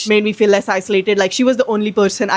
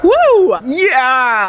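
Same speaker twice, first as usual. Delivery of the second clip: mock cheering; 3 semitones higher, 3 dB louder than usual. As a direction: cheer as if it were great news. Mock cheer for getting addicted.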